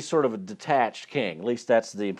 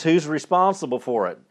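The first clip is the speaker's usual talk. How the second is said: higher-pitched, mildly acted outrage; outraged; 5 semitones higher, 4 dB louder than usual. King demanding who plotted against the Jews, mildly outraged. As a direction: demand the culprit with a touch of royal indignation. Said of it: "he's outraged".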